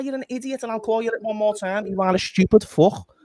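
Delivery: furious fan calling someone an idiot; angry rant. Real, not acted. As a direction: tear into him, then spit the last insult. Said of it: "That's my rant over".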